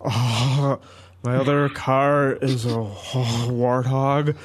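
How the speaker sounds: slow, smug nerdy gamer drawl; lightly voiced basement-dweller gamer; neckbeard voice. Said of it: "give us your neckbeard voice".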